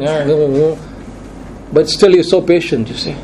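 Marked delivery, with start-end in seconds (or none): 0.0-0.8 a lightly imitated whine of complaint; mock whining. Preacher mocks his grumbling congregation with a mild whine. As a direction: mimic the grumblers' half-hearted whining noise. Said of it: "grumble and moan and whine".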